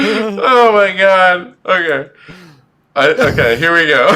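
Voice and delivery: sped-up chipmunk voice; chipmunk voice filter. Real, not acted. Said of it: "You sound like a chip-, like a chipmunk".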